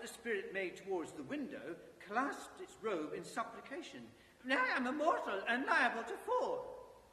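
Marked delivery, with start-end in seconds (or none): 4.4-7.0 higher, louder nervous plea; nervous pleading. Acted. Scrooge pleads with ghost.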